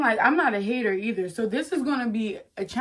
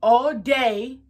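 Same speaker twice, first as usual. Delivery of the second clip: exasperated parent; 6 semitones higher, 5 dB louder than usual. Acted. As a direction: hammer each demand at the child, incredulous by the end. Acted parent scolding over chores.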